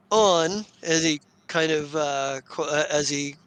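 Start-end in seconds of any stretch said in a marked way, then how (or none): 0.1-0.6 "on" set apart, pitched up; air-quoted word. Acted. Captain air-quotes his excuse to buyers, "on" raised and isolated. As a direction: lift "on" higher, as if in quote marks. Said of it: "makes the air quotes".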